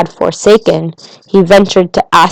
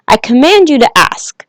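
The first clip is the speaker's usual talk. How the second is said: quick, higher-pitched royal order; hasty command; 5 semitones higher, 3 dB louder than usual. A narrator's reading. King to the little prince, hurried command. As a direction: rush the command out eagerly. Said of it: "the king hastened to say".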